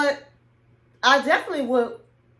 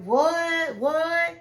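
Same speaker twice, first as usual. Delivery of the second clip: stunned double what, pitched up; shocked what; 5 semitones higher than usual. Retold or imitated. Husband hearing his wife's ultimatum, stunned disbelief. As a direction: act floored by what you heard. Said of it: "looking really surprised".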